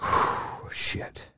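breathy unvoiced whisper of dread. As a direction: whisper it like bracing for ice water. Bracing before the cold shower.

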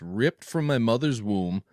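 slow, ominous reading; riddle reading. Shown as a demonstration. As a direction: read the riddle slowly and darkly. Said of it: "last week's riddle, it goes like this".

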